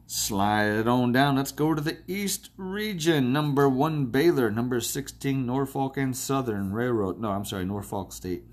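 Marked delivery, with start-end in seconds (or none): 0.1-7.2 carried-away announcing of the matchup; excited. Real, not acted. Bracket picker moving to the East Region, excited. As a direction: stretch the opening, then lift into an eager call. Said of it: "I got excited".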